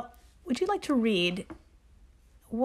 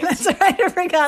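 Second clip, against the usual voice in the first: laughing out the words; 7 semitones higher, 6 dB louder than usual. Real, not acted. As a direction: giggle through it. Laughing agreement.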